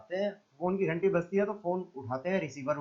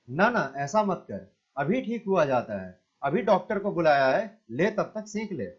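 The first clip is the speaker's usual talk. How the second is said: coaxing mother. Acted. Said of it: "पुचकार कर".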